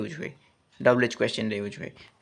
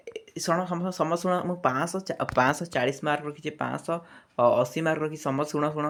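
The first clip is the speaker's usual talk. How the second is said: mildly excited announcement, pitched up; rising tone; 3 dB quieter than usual. Acted. Student telling everyone about good marks, mildly excited rising tone. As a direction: gather everyone for good news, lightly acted. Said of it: "ଏଇଟା ହେଉଛି ଆପଣଙ୍କର rising action".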